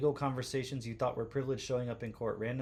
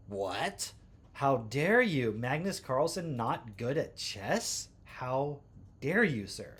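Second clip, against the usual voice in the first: mock outrage; 3 dB louder, slower than usual. Mock outrage over Carlsen claim.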